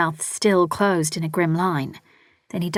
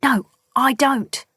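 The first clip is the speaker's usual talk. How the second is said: slow, higher, louder retort; snapped back; 7 semitones higher, 4 dB louder, slower than usual. A narrator's reading. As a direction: bite back at her sister. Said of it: "Elsa snapped back".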